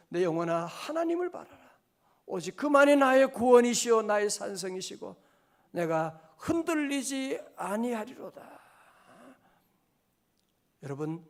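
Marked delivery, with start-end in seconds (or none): 0.1-8.6 loud declaration of faith; fervent declaration. Real, not acted. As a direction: declare it boldly. Declaring psalm in preaching.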